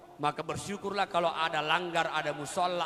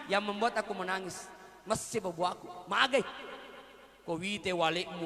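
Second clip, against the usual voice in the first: complaining wife; 2 semitones lower than usual. Retold or imitated. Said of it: "Kenapa menangis, Ibu?".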